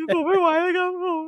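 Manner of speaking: high, whimpering imitation of a crying employee; mock tearful whine. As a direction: squeak it out like you're about to cry. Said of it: "เออ".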